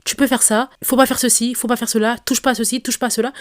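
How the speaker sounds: a mock imitation of a little sister's injunctive tone; bossy commanding tone. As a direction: rattle off commands at someone you treat like a child. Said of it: "c'est injonctif".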